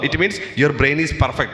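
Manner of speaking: very slow, every word weighted, stress on means; slow emphatic refrain. Acted. Teacher stressing the key line to students, slow and weighty. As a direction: drive home "It means your brain is perfect." word by word.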